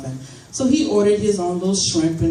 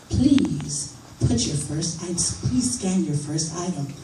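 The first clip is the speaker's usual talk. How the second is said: robotic checkout voice; 3 dB quieter, slower than usual. Retold or imitated. Imitating self-checkout machine voice.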